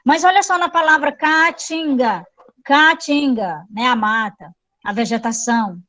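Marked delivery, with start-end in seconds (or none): 1.1-2.3 "caatinga" with the double A drawn out as ca-a-tinga; both As sounded. Shown as a demonstration. Teacher showing students two As in separate syllables, both As sounded. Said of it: "São dois As". 2.6-3.7 "Caatinga" said slowly, ca-a-tinga, with a long double A; slow down and hold both As of "Caatinga"; both As sounded. Shown as a demonstration. Teacher repeating the word to show equal vowels, both As sounded. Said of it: "São dois As".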